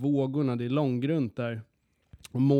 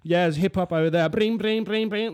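mock bar promoter; 5 semitones higher, 5 dB louder than usual. Promoter calling out.

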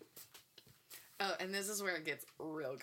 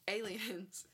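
laughing. Real, not acted. Mock conspiracy reveal.

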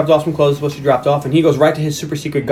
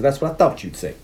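T I impression; 5 dB quieter than usual. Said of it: "Your T I is pretty good".

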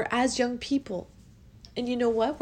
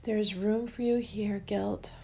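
guided affirmation; 2 semitones lower, slower than usual. Acted. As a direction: let each word land gently, slowly. Leads a guided emotional release.

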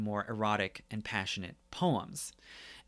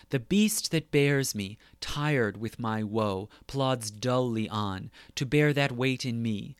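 poem reading. Acted. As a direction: let weary lines drag, like a tired horse. Reads Sonnet fifty aloud.

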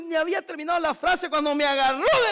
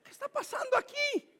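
stern father; 11 semitones higher, 6 dB quieter than usual. Retold or imitated. Father demanding what happens.

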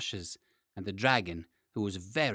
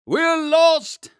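high, loud cry of panic; panicked mayor shout; 13 dB louder than usual. Acted. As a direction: shriek it like a frightened mayor. Mayor panics at giant news.

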